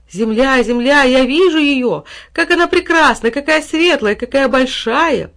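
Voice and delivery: see the Earth for the first time; delighted cries. A narrator's reading. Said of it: "восторженные возгласы детей". (восторженные возгласы, высоко и громко)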